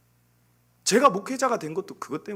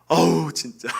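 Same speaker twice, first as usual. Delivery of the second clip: loud groaning outburst of annoyance; exasperated parent; 5 semitones lower, 8 dB louder, slower than usual. Retold or imitated. Parent fed up with the children, loud exasperation. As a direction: imitate a parent at the end of patience. Parent losing patience, retold.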